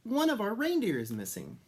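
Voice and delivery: high, worried elf voice. A narrator's reading. Elf reporting the missing reindeer, high and worried. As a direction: tell the bad news in a high voice. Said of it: "the little old elf".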